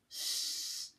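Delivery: sharp unvoiced shush to silence them; hissed shush. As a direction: hush them with a quick hiss. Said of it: "hissed Professor McGonagall".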